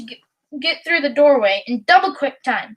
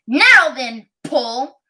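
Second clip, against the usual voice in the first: mean squeak; 3 dB louder than usual. Acted. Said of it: "it squeaked".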